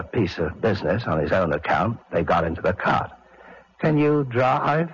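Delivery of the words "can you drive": slow, drowsy and simple; slow sleepy boy voice. Acted. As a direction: drawl it out like a sleepy lad. Fat Boy dialogue.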